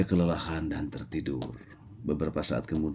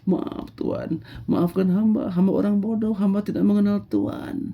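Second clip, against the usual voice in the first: much higher, pleading and quivering; frightened shepherd; 13 semitones higher than usual. Acted. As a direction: beg forgiveness, shaking with fear. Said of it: "semakin gemetaran". (gembala yang ketakutan dan gemetar)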